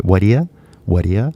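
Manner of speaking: "What are ya" run together, you as ya; reduced what are ya. Shown as a demonstration. Teacher shows how natives really ask "What are ya". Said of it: "But if you really listen".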